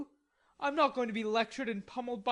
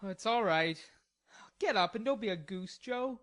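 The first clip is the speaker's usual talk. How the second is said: cavalier; 2 semitones higher than usual. A narrator's reading. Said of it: "the cavalier reply".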